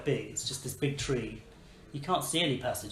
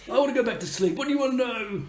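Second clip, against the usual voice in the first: sleepy tree voice; 10 semitones higher, 4 dB louder, faster than usual. Acted.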